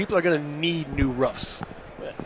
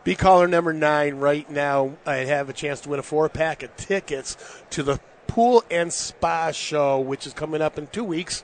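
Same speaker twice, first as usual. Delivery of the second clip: radio contest promo. Acted. Reads a radio ticket giveaway.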